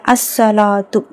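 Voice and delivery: "அஸ்ஸலாத்து" with no article L and a doubled S; silent lam. Shown as a demonstration. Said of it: "லாம் உச்சரிக்கப்படலை". ("அஸ்ஸலாத்து" லாம் இல்லாமல்)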